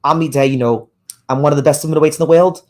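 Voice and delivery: casual attempt at a Scouse accent. Shown as a demonstration. Host showing viewers his impression, in a Scouse accent. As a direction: put on a lightly Scouse voice. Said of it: "that's my scout's accent".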